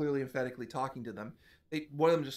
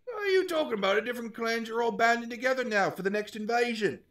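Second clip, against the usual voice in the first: hobgoblin voice; 10 semitones higher, 6 dB louder than usual. Acted. GM hobgoblin voice continues.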